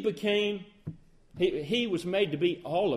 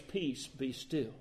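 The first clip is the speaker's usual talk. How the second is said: hushed command; 8 semitones lower, 11 dB quieter, slower than usual. Retold or imitated. Jesus calming the winds and waves.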